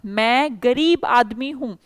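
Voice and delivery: गरीब stressed and said slowly. Shown as a demonstration. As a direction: lean on the word गरीब. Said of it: "आदमी के आगे गरीब लगा दिया". (गरीब पर ज़ोर, धीमा वाक्य)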